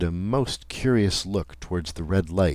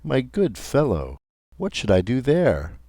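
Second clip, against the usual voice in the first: higher, louder acted remonstrance; mild protest; 6 semitones higher, 4 dB louder than usual. A narrator's reading. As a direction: protest with raised pitch, puzzled. Narrator acts out startled protest.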